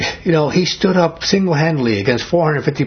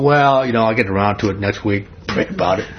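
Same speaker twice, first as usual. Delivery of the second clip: acted lack of urgency, trailing lower; mock casual brush-off; 3 semitones lower than usual. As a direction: imitate someone putting it off, voice sinking low. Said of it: "It wasn't".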